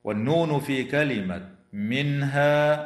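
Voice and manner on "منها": recited "منها" with a clean n and long final aa; clear izhar. Shown as a demonstration. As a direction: say the ن of "منها" clearly, unmerged, before ه. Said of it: "حكمها الإظهار الحلقي". (إظهار نون "منها" بلا غنة)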